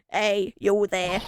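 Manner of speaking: slow gruff trial of a guard; first try at the guard, rejected; wrong guard voice. Shown as a demonstration. Voicing a guard, a slow wrong first try. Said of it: "that's not the right voice".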